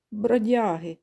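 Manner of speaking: mild barked insult; dog barking. Acted. Chained dog snaps back at the geese, mild bark. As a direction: snap it like a dog. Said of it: "гавкає йому слід собака".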